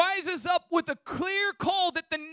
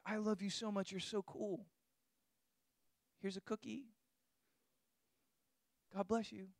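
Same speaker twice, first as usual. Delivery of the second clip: softer, breezy mock reassurance; mock shallow blessing; 9 semitones lower, 16 dB quieter than usual. Preacher mocking a shallow feel-good gospel, softer breezy mock. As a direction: toss it off lightly, softer, as if it costs nothing.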